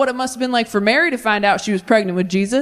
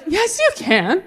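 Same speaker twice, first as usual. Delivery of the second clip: put-on young daughter insisting; 8 semitones higher, slower than usual. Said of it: "as his daughter, I was like".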